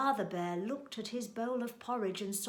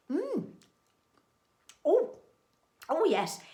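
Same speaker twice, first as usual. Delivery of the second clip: high, pleased mm and oh; savouring, higher-pitched little exclamations; delighted tasting noises; 8 semitones higher, 6 dB louder than usual. Acted. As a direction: relish a tasty mouthful. Goldilocks savours the porridge.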